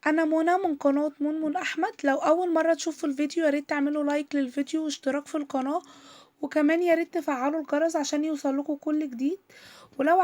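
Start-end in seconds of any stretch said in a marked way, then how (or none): none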